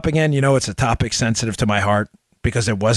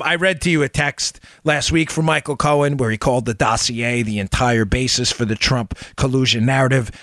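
ordinary talk, nothing marked

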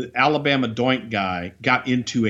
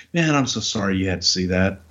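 lower, deflated, sincere sorry; a touch of sheepish calm after the outburst; calmed-down apology; 4 semitones lower than usual. Retold or imitated. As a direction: let the anger drain out and apologise. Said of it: "puts his shoulders down and goes".

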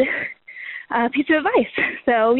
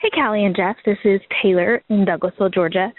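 out of breath; 2 semitones lower than usual. Real, not acted. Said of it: "Sorry, I'm a little out of breath".

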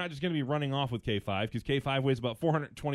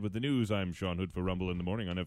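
radio weather read; 3 semitones lower than usual. Acted. Reads weather and news sign-off.

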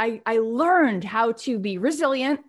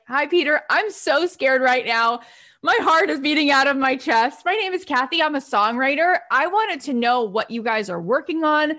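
nervous and scared; 2 semitones higher than usual. Retold or imitated. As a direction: gush nervously to a stranger on the phone. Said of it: "I'd be like".

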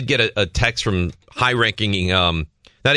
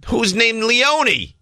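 incredulous drawn-out question; 13 semitones higher, much slower than usual. Real, not acted. Mocks the middle name Leone.

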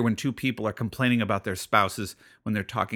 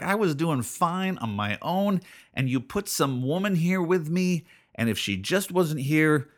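mock Adam; 5 semitones higher than usual. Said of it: "Adam's like".

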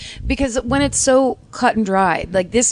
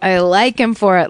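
louder, hard-boiled cop delivery; noir detective; 5 dB louder than usual. Shown as a demonstration. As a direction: lay it down like a tough cop. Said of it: "like, cop style".

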